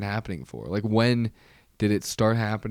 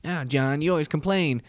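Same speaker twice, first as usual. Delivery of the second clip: Jackie O; 5 semitones higher than usual. Retold or imitated. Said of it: "she was like".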